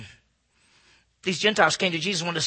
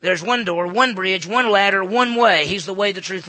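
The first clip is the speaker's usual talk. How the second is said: building emphasis; 8 dB louder than usual. Acted. Building list.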